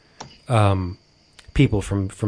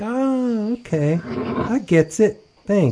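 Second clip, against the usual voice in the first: dim-witted thanks; 11 semitones higher, slower than usual. Retold or imitated. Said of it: "So they're like".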